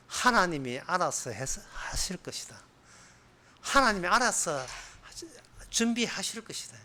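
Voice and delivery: whispered, tender reply to his son; soft, hushed voice; hushed father's answer. Acted. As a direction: breathe it out softly like a grieving father. Abraham answers Isaac softly.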